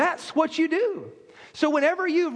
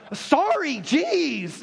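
put-on grudging kid sorry; much slower than usual. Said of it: "this is a kid one".

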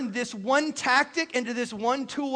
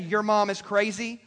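accusing you statement; slower than usual. Shown as a demonstration. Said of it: "you starting out the gate saying".

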